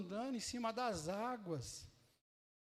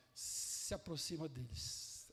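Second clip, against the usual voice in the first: slow, lower and softer, drawing near; tender and slow; 7 semitones lower, 6 dB quieter, much slower than usual. Real, not acted. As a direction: say it gently as if stepping closer. (suave e lento, mais grave e baixo)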